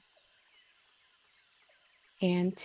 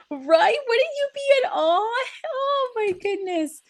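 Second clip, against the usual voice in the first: gushing aside; 14 semitones higher, slower than usual. Real, not acted. Gushing over the koala.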